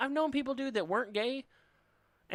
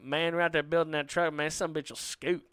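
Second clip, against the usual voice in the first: put-on drawled redneck accent, slowing at the end; imitated redneck. Son doing his parents' friend, redneck accent. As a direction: do a hardcore redneck family friend. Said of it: "imitate him a little bit".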